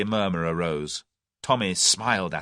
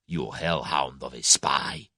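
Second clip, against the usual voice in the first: screamed; 6 semitones lower, slower than usual. A narrator's reading. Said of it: "he screamed".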